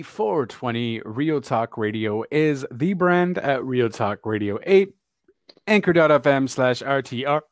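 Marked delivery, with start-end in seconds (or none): 1.1-7.4 talking through hiccups; hiccuping between words. Real, not acted. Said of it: "Excuse me for the hiccups".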